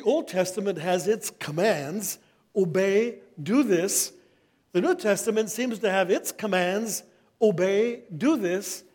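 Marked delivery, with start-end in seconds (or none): 2.5-4.1 a touch of a stern commanding God, louder; mock stern decree, a little louder. Quoting Old Testament commands. 7.4-8.8 a touch of a stern commanding God, louder; mock stern decree, a little louder. Quoting New Testament commands.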